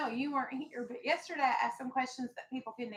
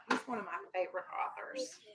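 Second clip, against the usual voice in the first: whispered aside; 4 semitones lower, 7 dB quieter, faster than usual. Real, not acted. Aside while reading to class.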